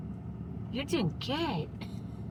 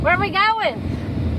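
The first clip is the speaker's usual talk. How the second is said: higher and louder, sing-song, slowed; high pet voice; 7 semitones higher, 5 dB louder, slower than usual. Real, not acted. Asking the dog about the camping trip, high slow pet voice. Cooing to the dogs in car.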